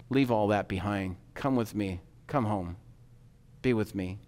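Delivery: soft, low, unhurried invitation; tender call with room between phrases; gentle beckoning. Acted. God calls us to leave it all behind, gentle beckoning.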